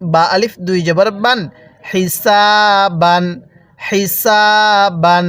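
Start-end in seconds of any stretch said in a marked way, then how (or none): 1.9-3.2 slow "হিসাবান" with a long held সা; drawn-out vowel. Shown as a demonstration. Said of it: "এই টানের নিয়মগুলো". 3.8-5.2 slow "হিসাবান" with a long held সা; drawn-out vowel. Shown as a demonstration. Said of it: "এই টানের নিয়মগুলো".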